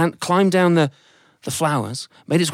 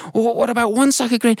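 high, eager thankful voice; a family delighted to reward the ant; high excited offer; grateful family; 10 semitones higher than usual. Acted. Family bargains.

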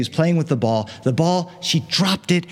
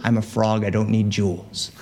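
lower, dry frog reply; 5 semitones lower than usual. Acted. Unimpressed low frog. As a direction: frog turning down the princess's jewels, lower.

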